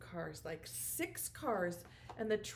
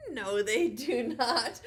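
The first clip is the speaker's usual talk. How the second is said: laughing; 6 dB louder, slower than usual. Real, not acted. Laughing at own silly question.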